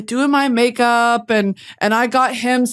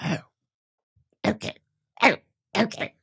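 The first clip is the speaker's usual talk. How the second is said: much softer, deflated; stunned quiet okay; 2 semitones lower, 8 dB quieter, much faster than usual. Retold or imitated. Reacting to the boyfriend's plush flower, deflated. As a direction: let it fall flat in disbelief.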